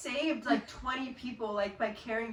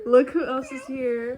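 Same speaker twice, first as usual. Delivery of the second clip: loud announcement; 2 semitones higher, 10 dB louder than usual. Acted. Echoing the arrival announcement.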